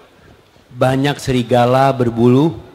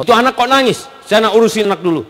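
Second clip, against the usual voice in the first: tag; 6 semitones higher, faster than usual. Acted. Husband sends wife to crying child.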